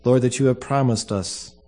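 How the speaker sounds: solemn, measured funeral prayer. Acted. Pastor prays at a funeral.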